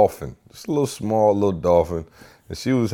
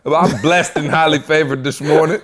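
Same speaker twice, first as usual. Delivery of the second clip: higher, louder mock-cheerful child; over-polite kid; 7 semitones higher, 4 dB louder than usual. Reformed son answering the cafeteria lady, mock cheerful. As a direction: imitate a suddenly well-behaved boy, bright and eager. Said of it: "he gave the cafeteria lady a hug".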